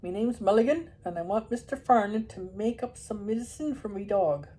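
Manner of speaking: lightly voiced rich Irish accent; a hint of a deaf old Irishman. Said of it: "spoke with a rich, unexpected accent".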